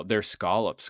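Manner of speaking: put-on insisting on scallops in Boston accent. Host corrects Chris on scallops, Boston accent. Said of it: "in your Boston accent".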